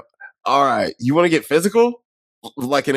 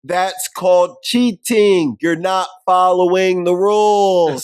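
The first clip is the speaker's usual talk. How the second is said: mock scolding; 3 semitones higher, slower than usual. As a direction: spell out each word like a smug referee. Quoting movie scolding line.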